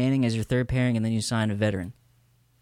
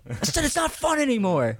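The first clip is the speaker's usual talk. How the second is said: mocking whine; 11 semitones higher than usual.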